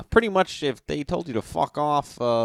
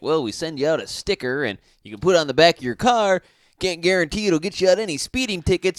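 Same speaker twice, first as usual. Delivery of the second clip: fake cop voice; 5 semitones higher, 4 dB louder than usual. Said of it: "people would be like".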